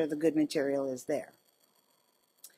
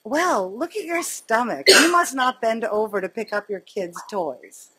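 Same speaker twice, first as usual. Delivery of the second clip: sassy comeback; 2 semitones higher, 3 dB louder than usual. Retold or imitated. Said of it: "I was like".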